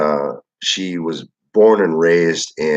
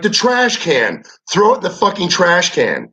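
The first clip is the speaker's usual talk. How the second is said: put-on exasperated girlfriend; 10 semitones higher than usual.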